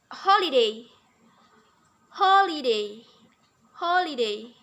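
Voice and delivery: "holiday" with a strong, stretched first syllable; stress demo. Shown as a demonstration. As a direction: hit the start of "holiday". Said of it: "There is rhythm in".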